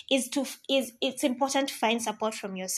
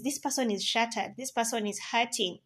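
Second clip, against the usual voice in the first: soft and tender; 6 dB quieter than usual. Real, not acted. Tender point about heartache.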